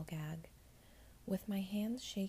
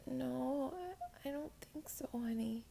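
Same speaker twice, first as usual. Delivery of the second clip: sorrowful; 6 semitones higher than usual. Acted. Gentle hard truth.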